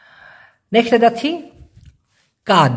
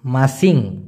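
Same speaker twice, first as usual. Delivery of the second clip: slow repeat; 3 semitones higher, much slower than usual. Shown as a demonstration. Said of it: "আমি আবার বলছি".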